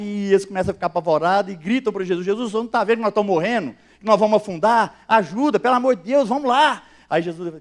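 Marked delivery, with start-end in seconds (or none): 2.3-6.8 fast, rushed mock panic; panicked plea. Disciples begging sleeping Jesus, fast and panicked. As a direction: gabble it out like scared men in a storm.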